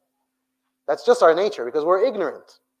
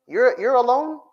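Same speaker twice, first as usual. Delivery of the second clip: raised, urgent preaching; sudden raised warning to the youth; emphatic warning; 7 semitones higher, 5 dB louder, slower than usual. Real, not acted. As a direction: hit it hard as a warning.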